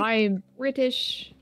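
slow, put-on British accent; playfully hammed-up English accent, drawn out. Streamer showing off to friends, mock English accent. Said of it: "guys aren't complimenting my English accent".

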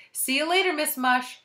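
high, loud schoolboy farewell; Eric Ovens. A narrator's reading. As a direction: call goodbye like a pupil. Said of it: "said the voice of Eric Ovens".

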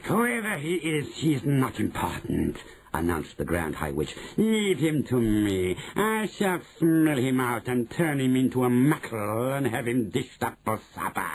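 deliberate put-on witch voice. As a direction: pronounce it with slow menace. Grand High Witch announces plan.

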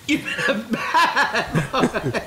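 very slow, drawn-out teasing scold through laughter; laughing, slowly drawn-out tease; slow mock scolding. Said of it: "repeats it drawn out laughing".

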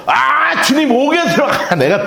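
excited Peter. Retold or imitated. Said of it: "눈이 뻘개져가지고".

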